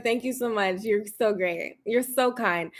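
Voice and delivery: fake polite thanks. Answering a backhanded compliment in person with fake sweetness. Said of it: "I was like".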